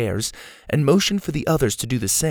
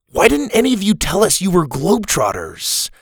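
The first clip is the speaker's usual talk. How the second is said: higher, louder accusing question; accusing boy; 9 semitones higher, 4 dB louder than usual. A narrator's reading. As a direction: demand an answer from the group. Sawyer accuses globetrotters.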